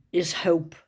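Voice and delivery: awed whisper. Real, not acted. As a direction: breathe the word in awe. Reading the angel's inscription.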